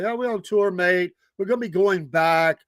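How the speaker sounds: lightly imitated English accent; a hint of phony English accent; fake English accent. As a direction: put on a bad English accent, touring-musician style. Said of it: "he would throw the English accent".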